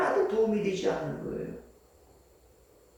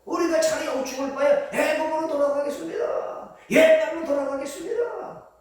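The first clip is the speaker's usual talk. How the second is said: defiant, high-pitched protest building louder; resentful complaint; 7 semitones higher, 3 dB louder than usual. Acted. Israelites threaten to go back to Egypt, resentful complaint. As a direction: throw it out as an aggrieved threat. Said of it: "원망 불평이에요?".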